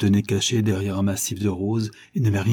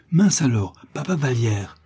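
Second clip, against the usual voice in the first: put-on bright, raised boy's exclamation; joyful cry; 3 semitones higher than usual. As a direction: call out happily to an old friend. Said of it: "s'écria Réglisse". (cri joyeux d'enfant)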